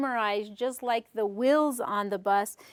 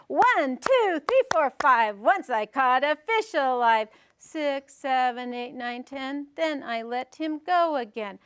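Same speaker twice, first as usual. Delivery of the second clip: nursery rhyme recitation. Shown as a demonstration. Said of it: "I'm gonna share a nursery rhyme".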